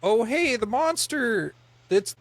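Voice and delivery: high-pitched attempt at a Scottish accent. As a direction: play a tourist guide with a Scottish accent. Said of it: "Good Scottish accent".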